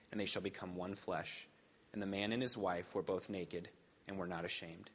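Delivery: measured, formal lector reading; scripture reading. Acted. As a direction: read the Genesis passage aloud to the congregation. Scripture reading before sermon.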